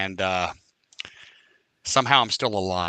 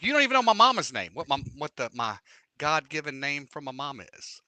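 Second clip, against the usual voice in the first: worked-up retort; 3 semitones higher than usual. Retold or imitated. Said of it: "I'm like".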